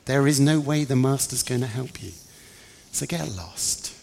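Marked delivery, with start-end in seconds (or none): 0.1-2.1 louder, raised-pitch scolding; indignant rebuke. Acted. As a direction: lay down the law to an intruder. James angrily orders her off.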